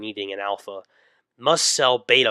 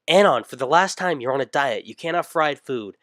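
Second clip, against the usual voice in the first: stern mom; 3 semitones higher than usual. Acted. Mom voiced scolding son.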